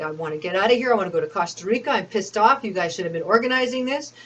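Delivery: reenacting the furious voicemails left for Alfred; retold angry voicemail. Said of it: "I was very angry".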